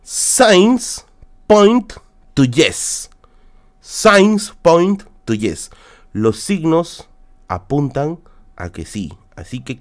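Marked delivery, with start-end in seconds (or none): 0.0-3.1 slow, drawn-out mystic pronouncement; oracle voice. Pretend. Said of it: "porque esta cochina habla el inglés". 3.8-5.7 slow, drawn-out mystic pronouncement; oracle voice. Pretend. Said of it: "porque esta cochina habla el inglés".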